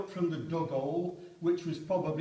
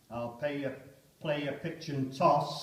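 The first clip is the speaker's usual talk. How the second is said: poem reading. Acted. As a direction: speak it as a stunned soldier. Poem recited aloud.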